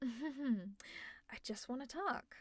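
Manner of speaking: slow, soft, sweetly threatening; fake innocent menace. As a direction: pretend you only want to talk. Fake-innocent threat after laugh.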